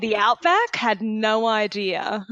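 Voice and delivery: hammed-up Australian accent, playing clueless; mock Australian accent to dodge a speeding ticket. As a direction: put on a thick Australian accent for the cop. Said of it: "I'm glad you can fake it so well".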